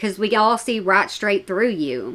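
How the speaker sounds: ordinary delivery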